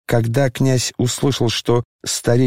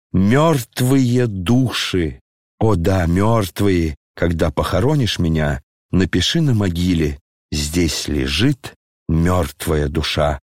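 slow mournful; 5 semitones lower than usual. Acted. Генерал скорбно просит надпись на могиле.

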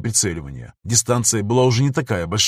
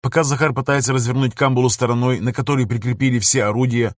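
ordinary delivery, nothing marked

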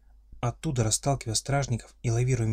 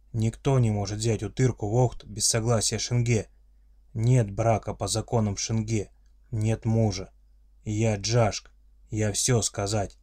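friendly monster voice. Acted. Orc father's solemn declaration.

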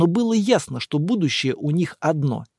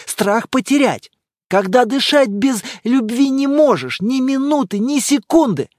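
higher, heated, dragging key words; passionate girlfriend; 7 semitones higher, 4 dB louder than usual. Acted. Girlfriend lecturing boyfriend on love, heated. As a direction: pour out anger about love.

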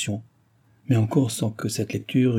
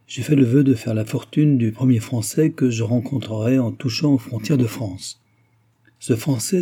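lightly voiced royal lady, a bit louder; lightly acted dauphine granting a favour; a hint of a commanding princess; gracious imperious dauphine; 2 semitones higher, 4 dB louder than usual.

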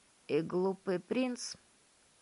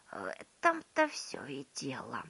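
whisper; 4 semitones lower than usual. A narrator's reading. Grandpa whispers.

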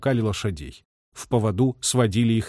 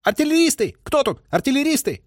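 distant cry; 14 semitones higher than usual. A narrator's reading. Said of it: "ответил слабым криком".

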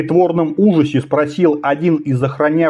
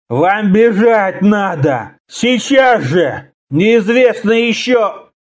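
slow, higher, strained urging; urgent warning; 6 semitones higher, much slower than usual. A narrator's reading. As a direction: urge them to flee. Groaning barbarian urges them to run.

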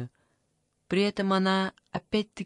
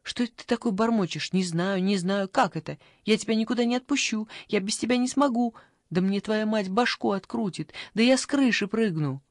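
higher, agitated, rushing; alarmed; 4 semitones higher than usual. Acted. Granny alarmed by the boy's answer, agitated. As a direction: panic at losing him. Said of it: "она спохватилась".

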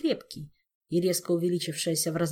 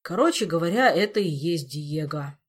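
firm blurt, loud at first; decisive Elmar; 5 dB louder than usual. Acted. Elmar revealing the reptile is Diego, decisive. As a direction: announce it resolutely. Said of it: "решительно выпалил Элмар".

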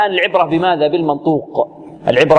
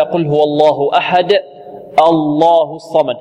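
slow measured recitation; Quran recitation; slower than usual. Shown as a demonstration. Teacher recites verse for students, slow. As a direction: recite قل هو الله أحد slowly. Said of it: "نقول هكذا".

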